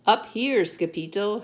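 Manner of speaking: high, loud holler; storybook Chihuahuas calling out high. A narrator's reading. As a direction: holler it to get his attention. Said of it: "hollered the Chihuahuas".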